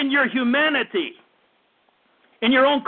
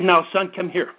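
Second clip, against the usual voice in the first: gentle parent; 5 semitones lower than usual. Shown as a demonstration. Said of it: "A gentle voice turns away wrath".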